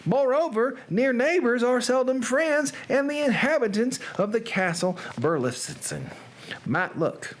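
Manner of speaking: Southern gothic storyteller; Southern accent. Pretend. Reader telling of two feuding noble families, Southern accent. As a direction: narrate grandly in a put-on Southern accent. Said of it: "Edgar Allan Poe in a Southern accent".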